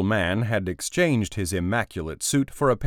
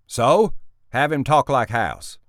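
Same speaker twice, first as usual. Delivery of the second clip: loud, high brush-off; dismissive; 6 semitones higher, 5 dB louder than usual. Acted. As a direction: wave the objection away. Boss dismissive of objection.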